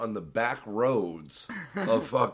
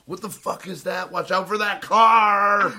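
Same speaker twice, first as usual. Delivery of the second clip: louder, higher alarmed shout; panicked yell; 7 semitones higher, 6 dB louder than usual. Retold or imitated. Imitating his girlfriend yelling at him about a car. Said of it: "she gets pissed".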